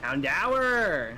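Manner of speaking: Houndour as a drawn-out "hown-DOWERRR"; mispronounced Houndour. Shown as a demonstration. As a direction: stretch the end of Houndour like "dower". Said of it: "fun ways to mispronounce Pokemon".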